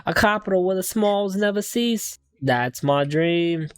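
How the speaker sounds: attempted London accent sliding into Australian; London accent gone Australian. Defendant sharing his dream, London accent turned Australian. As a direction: put on London, let it drift Australian. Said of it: "I feel like I'm doing Australian".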